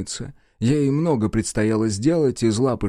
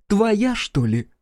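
slow, high mocking question; sarcastic jab; 10 semitones higher, much slower than usual. A narrator's reading. Ex-wife mocks her ex-husband, slow and high. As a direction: needle him with scorn.

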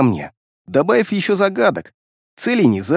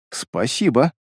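gentle, with a slight smile; smiling thanks; 3 semitones lower, 3 dB quieter, slower than usual. A narrator's reading. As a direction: say thanks softly through a smile. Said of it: "с улыбкой сказал я". (с лёгкой улыбкой)

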